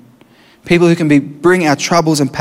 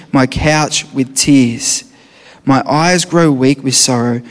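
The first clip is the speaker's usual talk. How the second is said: mournful scripture reading; 4 semitones lower, slower than usual. Acted. Mournful reading of Psalm six.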